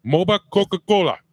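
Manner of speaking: name mumbled through a cookie; chewing while saying it; mouth full. Real, not acted. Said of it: "without that accent".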